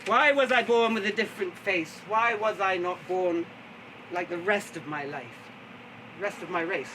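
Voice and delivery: strong opening, slowing into a lament; declaimed lament. Acted. Storyteller voicing the poet's lament, declaimed. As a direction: declaim it like verse to the house.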